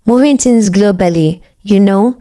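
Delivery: put-on a light casual American accent. Femi practicing in the mirror, light American accent. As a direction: drop into a swaggering American accent. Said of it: "Then he dropped an American accent".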